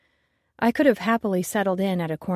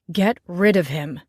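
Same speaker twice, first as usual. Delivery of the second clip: snarled order, louder; 5 dB louder than usual. Acted. Co-owner snarling at the chef to fire the new bartender. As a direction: bite out the command. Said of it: "Eric snarled".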